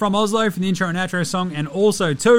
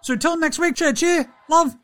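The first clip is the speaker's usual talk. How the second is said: Steven Adams impression; 3 semitones higher than usual. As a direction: play a laid-back New Zealand giant reading his diary aloud. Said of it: "close out the week with a Diary of Steven Adams".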